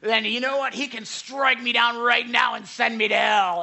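imitated angry shout, high and loud; acted-out furious challenge. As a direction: shout it as a defiant dare to heaven. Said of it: "And he starts shouting".

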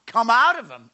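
very loud, high shouted order; shouted, authoritative rebuke; stern command. A narrator's reading. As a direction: cast it out at full force. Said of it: "said Jesus sternly".

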